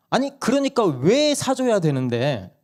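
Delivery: 높고 느리게 되묻는 엄마; 아이에게 맞서 따지듯; 되받아치는 엄마 흉내. Retold or imitated. 엄마가 되받아침. (막내에게 되묻는 아내 말투)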